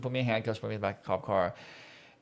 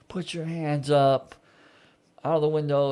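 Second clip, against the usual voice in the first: mock yell, raised pitch; retold scream; 4 semitones higher, 4 dB louder than usual. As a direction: retell a shouted order at half strength.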